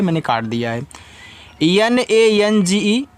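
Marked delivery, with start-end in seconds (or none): 1.6-3.1 slow letter-by-letter spelling; teacher spelling out a word for students. Shown as a demonstration. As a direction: spell out each letter slowly and deliberately. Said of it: "इसको लिखा है नंगे".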